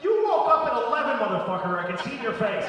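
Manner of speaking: loud, high angry rant; angry retort. Retold or imitated. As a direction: tell her off at full volume. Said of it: "And I'm like".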